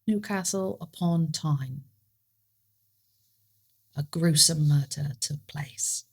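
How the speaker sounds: slow, soft mock uppity English accent. Co-host echoes the uppity take, slow hushed English accent. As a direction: intone it quietly in a posed English accent. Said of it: "or you have the uppity".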